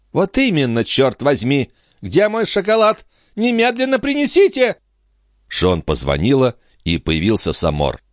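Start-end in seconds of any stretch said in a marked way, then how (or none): 0.1-4.8 high-pitched, irritated demand; imperious angry countess. A narrator's reading. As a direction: order the servants crossly, pitched high. Countess demands her chocolate angrily.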